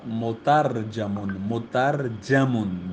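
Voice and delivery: مترجمن drawn out slowly with jeem-zabar, "mutarjamun"; careful pronunciation. Shown as a demonstration. Teacher reading out the bracketed word for students, careful pronunciation. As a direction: sound out مترجمن slowly, "jam" with an a. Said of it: "جیم پہ زبر ہے".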